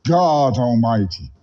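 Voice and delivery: high preacher cry with a stuttered echo effect; hammed-up, echoing last syllable, then one long held high note; mock-preacher proclamation. Caller quizzing the clerk about Jesus, echoing mock-preacher proclamation.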